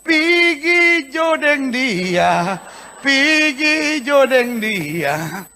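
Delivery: a hint of an angel, slow drawn-out Manado speech; angel's voice, Manado accent. Angel answering Jabez, slow in a light Manado accent. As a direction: slowly drawl pigi jodeng dia as an angel. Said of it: "suara malaikat menjawab dia dan berkata".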